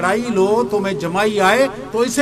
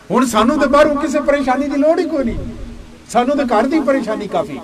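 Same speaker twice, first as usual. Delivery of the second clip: joking Punjabi aside; 2 semitones higher than usual. Real, not acted.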